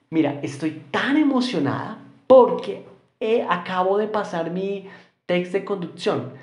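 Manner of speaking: excited example. Shown as a demonstration. Teacher acts out excited example.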